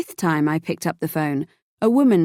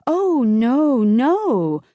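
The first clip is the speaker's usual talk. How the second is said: higher, louder hurried protest; insisting denial; 6 semitones higher, 3 dB louder, much slower than usual. A narrator's reading. Mistress on the phone insists to the wife, high and protesting. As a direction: brush the accusation off fast. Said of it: "Lucy insisted".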